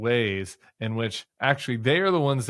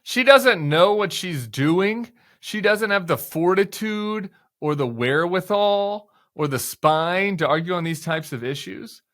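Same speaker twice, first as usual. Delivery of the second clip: slow, scornful echo of the quote; mocking repeat; 4 semitones higher, 4 dB louder than usual. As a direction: throw his words back with disdain.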